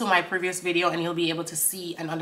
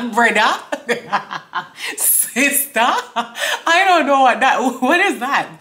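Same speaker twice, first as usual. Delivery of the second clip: breaking up laughing while asking, higher and louder; can't get the words out for laughing; laughing in disbelief; 5 semitones higher, 7 dB louder, slower than usual. Real, not acted. Host reacting to shocking lyric.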